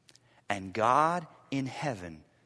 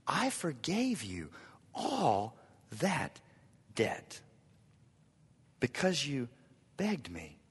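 soft repetition; 7 dB quieter, slower than usual. Shown as a demonstration. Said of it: "repeated, softly".

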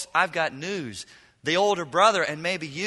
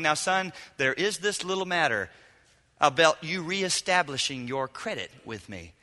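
mock father's lecture. Father lecturing the returned son, mock stern. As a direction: play the disappointed father laying down the law. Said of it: "some lecture from the Father saying".

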